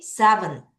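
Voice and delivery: Seventy with strong SEVEN, faint ty; SEVEN-ty, ending barely voiced; weak ty. Shown as a demonstration. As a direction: hit SEVEN, nearly swallow ty. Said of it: "T를 약하게 읽어요".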